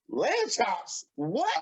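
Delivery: Lamb chops vragend en ongelovig; ongelovige vraag. Retold or imitated. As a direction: herhaal Lamb chops alsof je het niet gelooft.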